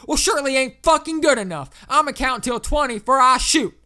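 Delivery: shouted southern ultimatum, high and very loud; enraged southerner. A narrator's reading. Landowner gives the operator an ultimatum before shooting, pissed-off shouting. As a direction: bellow a threat in a southern accent. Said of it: "He sounded pissed as fuck".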